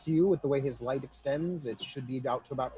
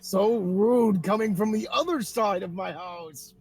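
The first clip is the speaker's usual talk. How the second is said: laughing through it; 7 semitones higher, 6 dB louder than usual. Real, not acted. GM laughing at player's joke.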